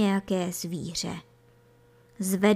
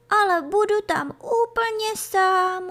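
put-on high, anxious kid-goat voice; worried little kid; 12 semitones higher, 4 dB louder than usual. A narrator's reading. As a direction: protest in a small, high, worried voice. Scared kid dreads sleeping alone. (ustaraně, vysokým hláskem)

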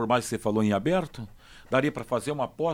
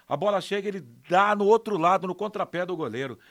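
lively, raised goal recap; excited retelling; 4 semitones higher than usual. Real, not acted. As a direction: build it up like a replay.

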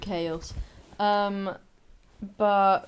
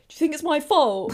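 laughing retort; 7 semitones higher, 7 dB louder than usual. Retold or imitated.

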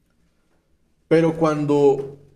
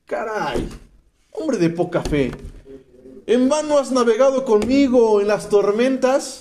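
Jesus rebuking; 5 semitones higher than usual. Pretend. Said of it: "Fue así de".

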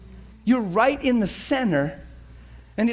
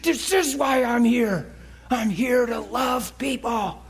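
slow, raised, drawn-out declaration; joyful realisation; 4 semitones higher, slower than usual. Retold or imitated. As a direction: stretch it out as a joyful revelation. Re-enacts joyful realisation in parking lot.

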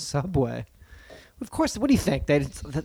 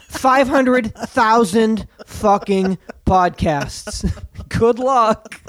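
sarcastic; 7 semitones higher, 5 dB louder, much slower than usual. Pretend. Sarcastic aside in high voice.

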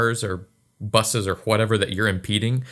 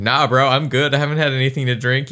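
casual; 4 semitones higher, 4 dB louder than usual. Shown as a demonstration. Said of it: "instead of just saying".

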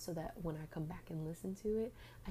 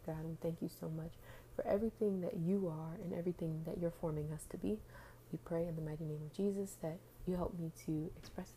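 prayer. Acted. Leads a spoken prayer.

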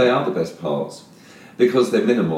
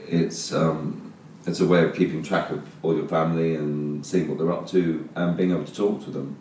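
cave echo. Real, not acted. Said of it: "the first twenty minutes sound like we're in a cave".

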